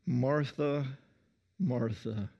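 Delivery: lovingly. Acted. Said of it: "he's saying that very lovingly".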